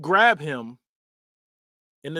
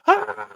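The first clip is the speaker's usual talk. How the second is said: brief mock scream; higher, half-laughing victim cry; imitated scream; 5 semitones higher, 3 dB louder than usual. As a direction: let out a played-for-laughs yelp. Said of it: "He's screaming 'cause they're".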